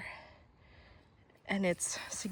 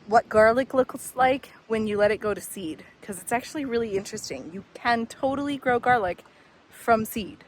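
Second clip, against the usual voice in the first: raised voice over the wind; louder, to carry over wind; shouting over wind; 3 semitones higher, 5 dB louder than usual. Real, not acted. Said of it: "if you can hear me over the wind".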